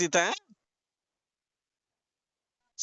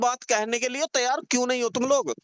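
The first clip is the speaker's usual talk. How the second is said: raised, higher pitched demand; heated scolding; 5 semitones higher than usual. Real, not acted. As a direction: press him hard for a straight answer. Heated phone argument, scolding.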